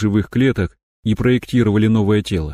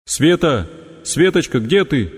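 calling out; 6 semitones higher, slower than usual. Acted. Calling out searching.

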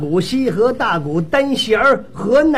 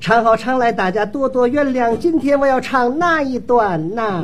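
模仿演员开场白. Acted. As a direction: intone it like a singer addressing the house. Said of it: "我连程玉兰上场都学一学啊。". (拖腔念开场白)

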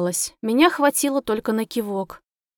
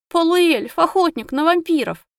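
tearful; 6 semitones higher, 4 dB louder than usual. A narrator's reading. Heroine crying to taxi driver.

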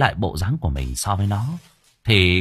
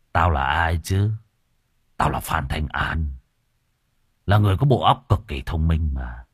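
smug villain; 4 semitones lower than usual. Acted. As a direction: gloat over your own cleverness. Killer boasting to himself.

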